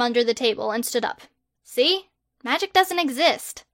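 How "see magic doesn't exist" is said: higher, exasperated protest; indignant girl. Acted. Hermione protesting her arrest to Harry, higher and indignant. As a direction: push back in disbelief.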